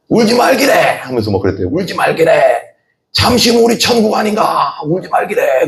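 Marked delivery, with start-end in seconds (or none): 0.1-0.7 retold mother's shout. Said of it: "소리 질렀대, 엄마가". 1.6-5.7 high, pleading mother's voice; retold mother's cry. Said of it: "소리 질렀대, 엄마가".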